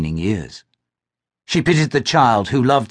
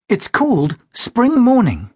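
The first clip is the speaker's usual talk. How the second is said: put-on much higher, slow, pleased young woman; Glynis's voice; 11 semitones higher, slower than usual. Glynis answers Cameron.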